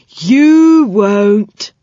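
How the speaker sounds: cheery saucepan man promising help; cheery old saucepan man. Acted. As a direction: reassure the children brightly.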